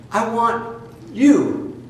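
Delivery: very slow, weighty I want you; solemn emphasis. Real, not acted. Preacher addressing his followers, slow weighty emphasis. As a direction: lean on each word slowly.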